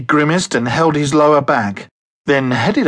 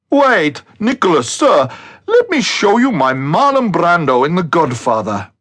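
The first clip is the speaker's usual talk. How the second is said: eager calling out; 4 semitones higher than usual. Acted. Ricky eagerly calls after Nicholas.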